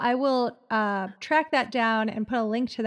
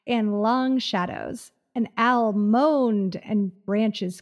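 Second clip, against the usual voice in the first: reading a spooky blurb aloud; story narration. Acted. Reads book blurb aloud.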